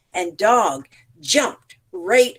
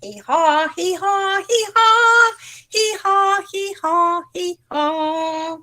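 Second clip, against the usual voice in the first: donkey braying; 9 semitones higher than usual. A narrator's reading. Storyteller braying as Donkey for the children. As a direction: bray like a donkey. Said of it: "And Donkey went".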